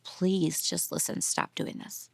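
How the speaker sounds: soft, slow, pleading words fading to a whisper; pleading hush. Retold or imitated. Mother begs her son to stop, voice dropping to a whisper. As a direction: beg him quietly, almost breathless.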